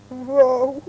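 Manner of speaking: high, drawn-out frightened yelp; terrified bark. A narrator's reading. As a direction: let a scared little fox's bark slip out. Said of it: "Csak úgy vacogott a rémülettől".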